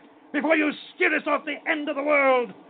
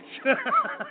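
mocking laugh.

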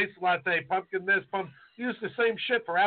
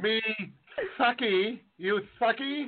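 mock Asian accent; 4 semitones higher than usual. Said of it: "How's this one?".

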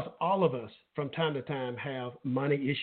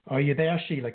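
shouting into a phone; 3 dB louder than usual. Real, not acted. Calling guest on bad line.

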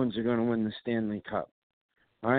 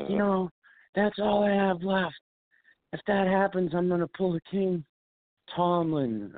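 mocking Frank; 9 semitones higher than usual. Host mocking his co-host Frank's Patriots despair, higher mock whine. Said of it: "And he's like".

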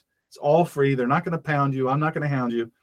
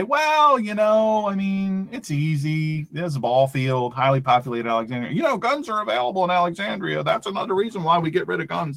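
pitched-up, whiny imitation of a gun-control advocate; mock liberal voice; 3 semitones higher than usual. Talk host mimicking an anti-gun liberal, hammed-up mock voice. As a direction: lampoon the opposing side's smug reasoning.

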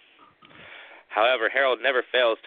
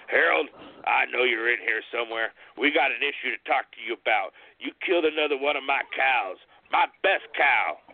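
confronting Harold; 4 semitones higher than usual. Acted.

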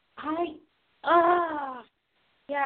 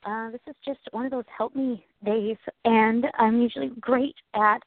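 heartfelt prayer. Real, not acted. Prays for friend.

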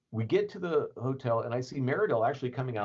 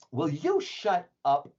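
irritated snap; 7 semitones higher, 5 dB louder, slower than usual. Retold or imitated. Yvonne snapping, quoted.

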